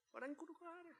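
put-on high whisper fed to the child; prompted whisper. Shown as a demonstration. Leader whispering Mary's line for the child.

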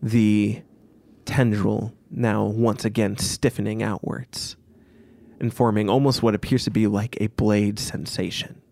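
measured, deliberate scene setting; game master narration. A narrator's reading. Game master describing the needle to players, measured narration. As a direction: narrate with pauses between phrases.

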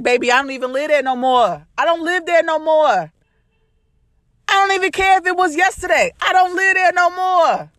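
dismissive laugh-off. Pretend. Telling past-diggers she's moved on, breezy and dismissive. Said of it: "I can laugh at them and be like".

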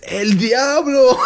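very high, slow, loud imitation; hammed-up shriek, stretched out into laughter; classmate's outburst. Imitating classmate reacting to a joke, shrieked outburst. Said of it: "This guy says".

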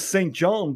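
"Saint John" said in full as two words; spelled-out name. Acted. Fiancé spells out his name before correcting it, full "Saint John". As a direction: give "Saint John" every letter. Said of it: "but it's pronounced St. John".

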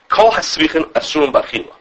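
called out like a quoted ruling; proclaimed quote. Shown as a demonstration. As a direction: declaim the Ram's words. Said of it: "that's how he, he says".

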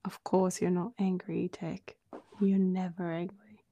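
dry, eye-rolling reassurance; mock-understanding, pointed; sarcastic agreement. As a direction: pretend to agree, not believing a word. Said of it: "like, rolling my eyes".

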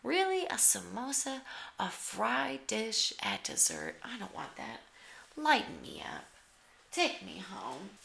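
mock suspicious, incredulous questions; suspicious disbelief. Judge eyeing the samosa with suspicion, incredulous. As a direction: sound doubtful of a fried dessert. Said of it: "the intonation I hope to express in my voice".

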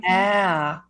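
long, drawn-out Minnesota vowel; imitated Minnesotan agreement; Minnesota accent. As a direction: stretch the word in a put-on Minnesota accent. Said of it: "I do the Minnesota accent".

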